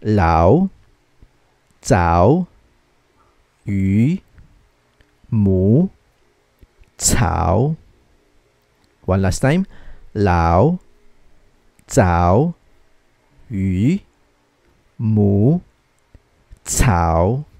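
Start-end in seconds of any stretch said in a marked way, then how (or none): 0.0-7.8 "Lao, cao, yu, mu, cao" each dipping low then rising; third tone. Shown as a demonstration. Teacher repeating third tone, "Lao, cao, yu, mu, cao" all dipping. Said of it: "So that's third tone". 10.2-17.5 "Lao, cao, yu, mu, cao" each dipping low then rising; third tone. Shown as a demonstration. Teacher repeating third tone, "Lao, cao, yu, mu, cao" all dipping. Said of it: "So that's third tone".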